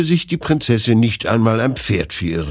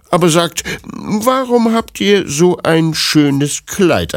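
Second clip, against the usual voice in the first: put-on old village woman; 6 semitones higher, 3 dB louder than usual. Old woman explains her son's hard life, elderly character voice. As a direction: voice a talkative old granny, pitched up.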